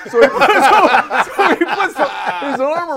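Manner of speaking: high and slow, breaking into laughter; laughing. Real, not acted. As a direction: laugh your way through the line. Laughing at his own story.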